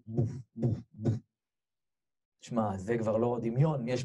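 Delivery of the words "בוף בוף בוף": spaced, thudding knock sounds; imitated door knocks. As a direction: voice separate thumps on a door. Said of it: "נקישות חזקות בדלת". (חיקוי דפיקות בדלת)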